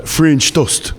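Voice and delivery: hammed-up French way of saying "French toast"; mock French pronunciation. Shown as a demonstration. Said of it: "I think it's pronounced".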